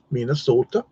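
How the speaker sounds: put-on a light Minnesota accent on "Minnesota", round long o's like mee-nuh-SOH-tuh; half-hearted Minnesota accent. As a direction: imitate a Minnesotan saying "Minnesota", only a hint. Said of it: "That's my best Minnesota accent I can muster".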